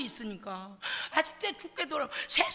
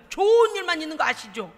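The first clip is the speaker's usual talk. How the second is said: emphatic call; 8 dB louder than usual. Acted. Preacher calls out to congregation.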